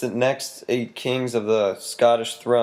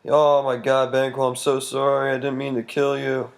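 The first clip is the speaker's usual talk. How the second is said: mild mock panic; hammed-up fright, pleading with a ghost; freaking out; 2 semitones higher than usual. Macbeth apologizes to Banquo's ghost, mildly hammed-up freak-out. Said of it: "he, like, freaks out".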